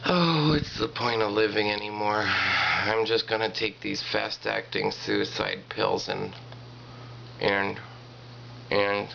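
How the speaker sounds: slow, heavy hopeless sigh; despairing. Acted. Dumped husband writing in, slow and despairing. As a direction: drag it out, hopeless.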